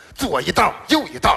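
long scolding rant building to a yell at the end. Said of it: "我爸那给我骂呀".

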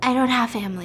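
plain

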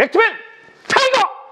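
very high-pitched heroic shout. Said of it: "제일 좋아하는 캐릭터는 벡터맨".

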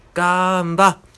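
sugary, sweet, cutesy little cheer. Asked to give it a try, the speaker says a line: cute voice. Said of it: "可愛い感じでいきました".

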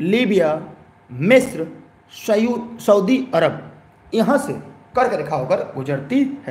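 slow dictation with pauses after each name.

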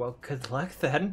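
mumbling to oneself, muttering under the breath. Voicing a character speaking in his own head: mumbling to himself. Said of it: "You just kind of mumble".

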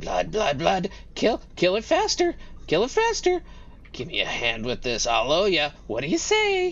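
high, swooping creature chatter voice. Speaker voices the creature's shouting while it points, in a red cap creature voice. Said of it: "it sounds like the red caps".

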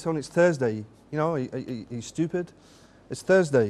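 plain

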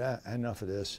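plain

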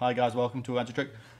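flat, level, unvaried monotone drone. Giving social media advice, showing a dull video intro in a monotone. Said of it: "If it was a monotone".

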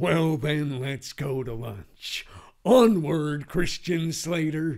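very slow, drawn-out actor voice, every word stretched. Answering a lunch invitation as Christian Slater: Christian Slater voice. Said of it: "Jack Nicholson and Christian Slater".

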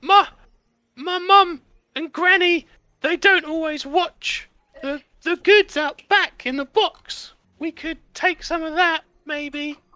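put-on very high, slow little-kid voice. Voicing a character who puts his little hand up: high voice. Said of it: "I'm going to try and do a high voice".

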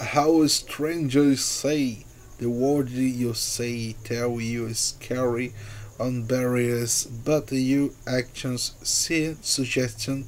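ordinary delivery, nothing marked

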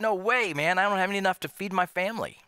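high-pitched, protesting, refusing tone. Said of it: "Maybe you're like".

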